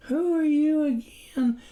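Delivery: high, wary question; the wife, suspicious of the stranger. A narrator's reading. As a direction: eye him with suspicion as you ask. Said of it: "with a note of suspicion".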